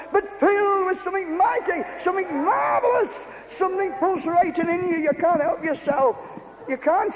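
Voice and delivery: preacher carried away by joy; ecstatic preaching. Real, not acted. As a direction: lift the congregation with rapture. Preacher rising to ecstatic fervour.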